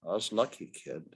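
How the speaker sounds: a soft, sinking admission; softly. Acted. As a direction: let it fall away to almost nothing. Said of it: "he said softly".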